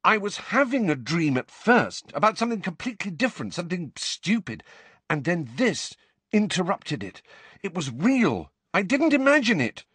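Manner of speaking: high, agitated, building in urgency; angry insistence. A narrator's reading. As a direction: plead frantically to be taken seriously. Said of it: "said Harry angrily".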